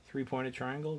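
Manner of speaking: incredulous rise at his own phrase; self-mocking question. Real, not acted. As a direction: question the phrase you just used. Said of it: "Great. How many other kinds of triangles are there?".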